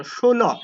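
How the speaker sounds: ষোলো said as sholo with sh; ষোলো with a plain sh sound; teacher models ষোলো as sholo; pronunciation demo. Shown as a demonstration. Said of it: "এটার উচ্চারণ করবো আমরা তালব্য শ মতো".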